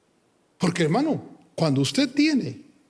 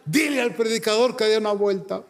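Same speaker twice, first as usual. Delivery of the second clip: high, urgent retold testimony; pitched-up, emotional acted explanation; impassioned convert; 6 semitones higher than usual. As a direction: imitate an overwhelmed new believer pleading.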